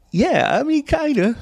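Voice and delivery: high, meek little voice; timid backpedal. Retold or imitated. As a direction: shrink away from the big guy. Backing down before big guy.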